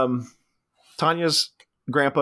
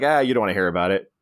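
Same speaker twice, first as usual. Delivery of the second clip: dismissive; 6 semitones lower, faster than usual. Retold or imitated. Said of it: "I love the way she delivers that".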